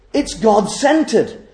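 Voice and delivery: slow, deliberate emphasis on God-centered; slowly. Shown as a demonstration. Preacher slowing down so the congregation takes it in, slow. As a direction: let "God-centered" land slowly, word by word. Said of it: "this couldn't be, uh, said too quickly".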